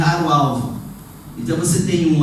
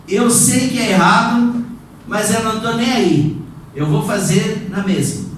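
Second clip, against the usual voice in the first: raised, emphatic voice of an imagined rebel; higher, forceful defiance, acted as an example; defiant rebellion; 5 semitones higher than usual. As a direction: act out a sinner who openly refuses to care. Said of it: "É rebelião".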